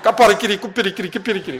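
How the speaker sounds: rattling nonsense syllables, half laughing; amused mimicry of speaking in tongues; imitated tongues. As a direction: rattle off 까빠라끼리 like scrolling text. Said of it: "그런 식으로 갑자기".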